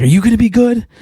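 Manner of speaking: high scolding mom. Retold or imitated. Mom yelling at her kid, high scolding voice. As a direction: scold like a fed-up mother. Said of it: "She's like".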